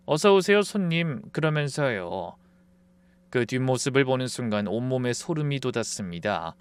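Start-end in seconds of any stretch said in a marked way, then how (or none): 0.1-1.2 bright greeting. Retold or imitated. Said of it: "환하게 웃으면서".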